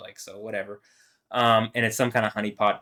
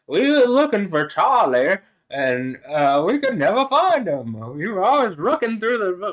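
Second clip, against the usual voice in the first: Forrest Gump impression; 9 semitones higher, 6 dB louder than usual. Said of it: "That's even the Forrest Gump thing".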